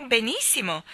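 salmon bursts out eagerly; excited. Acted. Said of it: "disse il salmone concitato". (esclamazione concitata)

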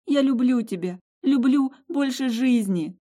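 high, loud, slow tearful plea; tearful confession. Acted. Heroine weeping her love over Tim, high loud slow tearful plea. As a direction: stretch it out through tears.

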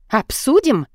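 suspiciously soft. A narrator's reading. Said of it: "подозрительно мягко переспросила мама".

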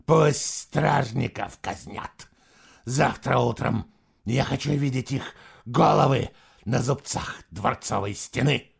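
cold, slow imperial fury; lightly voiced enraged emperor; furious emperor. Emperor orders execution.

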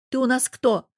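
a mother rousing her daughter; rallying challenge. A narrator's reading. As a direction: coax her to stand up.

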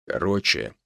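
ordinary delivery, nothing marked

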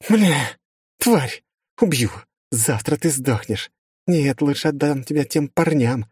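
put-on high, furious cursing at the girl; vicious rage. A narrator's reading. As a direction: spit out venomous threats. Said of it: "Она мерзко рассмеялась".

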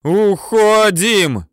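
high, loud, drawn-out desperate yell; straining yell. A narrator's reading. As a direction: tear the voice on it. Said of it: "уже с надрывом орёт".

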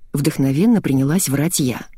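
plain reading voice

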